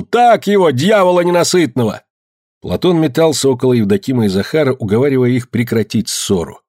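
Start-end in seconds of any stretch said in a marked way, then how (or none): 0.0-2.0 high, egging-on shout; heated cry. A narrator's reading. Peasant watching the quarrel bursts out, heated cry. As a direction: call out, urging the fighter on. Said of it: "не выдержав, крикнул".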